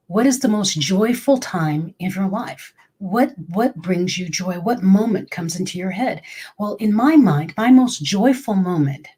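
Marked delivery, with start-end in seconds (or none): 0.1-6.2 a hint of a whispered meditation guide; lightly voiced soothing guide, first question whispered. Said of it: "very soothing voice".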